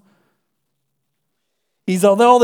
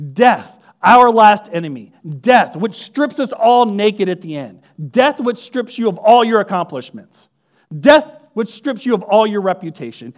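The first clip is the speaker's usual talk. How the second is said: louder, rising litany hammering death; preaching at full force; 3 dB louder than usual. Acted. Preacher thunders against death to the congregation, loud. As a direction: build each line like a hammer blow.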